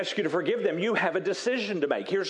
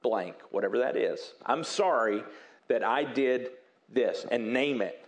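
humble apology; 4 semitones lower than usual. Shown as a demonstration. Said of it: "So it would sound like this".

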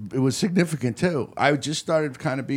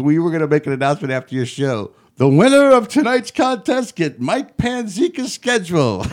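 much higher, louder, laughing reveal; gleeful friend; 6 semitones higher, 7 dB louder than usual. Retold or imitated. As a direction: deliver the punchline through laughter. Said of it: "He's like, he goes".

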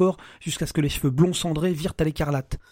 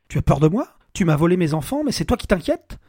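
menacing anger; 5 dB louder than usual. Acted. Alex advancing on Emma.

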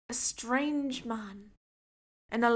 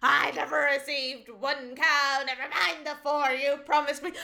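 betrayed and heartbroken; 2 semitones higher than usual. Acted. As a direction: accuse him with hurt. Old woman accuses.

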